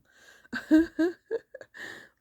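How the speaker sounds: high, loud burst of laughter. Real, not acted. Amused at going down as the sun comes up, laughing. Laughs at own vampire joke.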